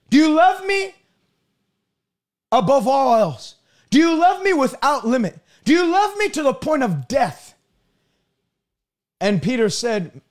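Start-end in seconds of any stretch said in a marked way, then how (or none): 0.1-7.5 raised, pressing questions with pauses between; emphatic preacher's acting of an urgent appeal; insistent pleading. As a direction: press the question harder, as if demanding everything. Jesus presses Peter one last time.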